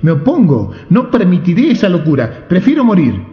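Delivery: refuse, rather die; defiant king. A narrator's reading. King refuses marriage desperately. (rey desesperado se opone, más agudo)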